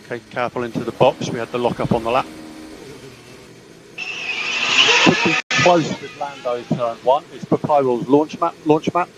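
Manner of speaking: crackly team radio, engine noise behind; short radio calls to the driver; clipped radio over engine roar. Real, not acted. Team radio during race.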